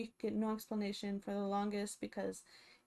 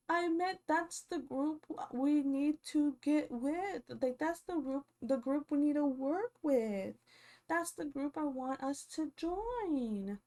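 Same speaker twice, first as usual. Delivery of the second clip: a hint of a whiny, slower Angela impression; half-hearted higher mimicry of a flimsy excuse; lightly mocked excuse; 4 semitones higher than usual.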